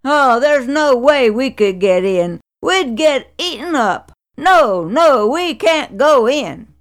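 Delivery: fearful cry. Acted. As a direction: ten spies warning the people off, fearful and loud. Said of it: "But ten of the spies cried".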